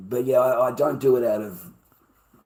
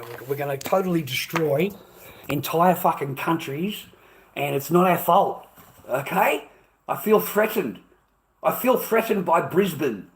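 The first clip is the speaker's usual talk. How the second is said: loud, indignant mock complaint; mock victimhood; 3 semitones higher, 6 dB louder than usual. Streamer parodies aggressors claiming they are threatened, mock indignation. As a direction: climb into raised, hammed-up grievance.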